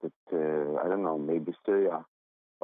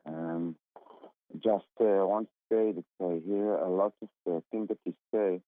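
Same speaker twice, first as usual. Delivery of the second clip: distant, muffled phone caller; far from phone mic. Real, not acted. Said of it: "I'm having a really difficult time understanding you. Are you on speaker".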